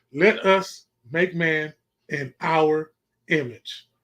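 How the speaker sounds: slow, low, deliberate delivery, each word spaced out. Repeating a line for the listeners to think about, said slowly. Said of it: "I have to say it slow".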